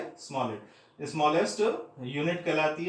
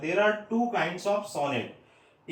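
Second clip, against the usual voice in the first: slow dictation; much slower than usual. Shown as a demonstration. Dictating the point.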